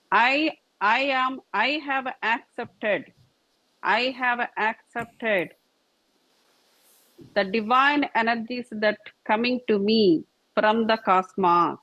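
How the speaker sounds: slow, deliberate inner affirmation; calm affirmation. Shown as a demonstration. Teacher models the affirmation for students, slow and calm. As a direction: say it slowly as a vow to yourself. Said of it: "tell an affirmation within yourself".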